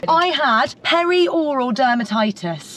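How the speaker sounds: "perioral dermatitis" said slowly, each syllable clear; careful pronunciation. Shown as a demonstration. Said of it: "so I pronounce it properly".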